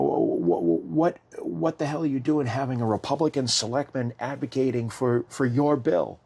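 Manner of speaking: hammed-up furious colleague; imitated berating. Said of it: "he used other words".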